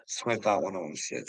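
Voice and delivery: ordinary delivery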